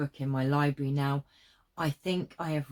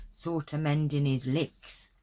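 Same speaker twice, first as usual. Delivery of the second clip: whispered aside; a dropped whispered phrase. Real, not acted. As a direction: breathe the words out unvoiced. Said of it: "it's hard work reading this".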